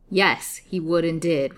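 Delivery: slow, emphatic confirmation with grim pride; grimly satisfied, deliberate reply; grim retort. A narrator's reading. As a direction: confirm it firmly, leaning on the first word. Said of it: "retorted Haidee with a grim sort of smile".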